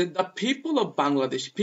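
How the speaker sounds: very slow, word by word; slow example read. Shown as a demonstration. Teacher reading the example sentence to students, very slowly. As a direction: spell the example out slowly for learners. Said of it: "বলতেছে".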